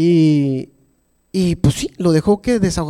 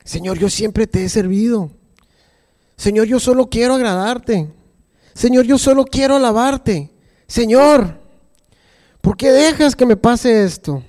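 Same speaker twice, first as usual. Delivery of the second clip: complaining prayer; 4 semitones higher than usual. Retold or imitated. A believer complaining to God, building from calm to pleading. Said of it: "hemos hecho esto".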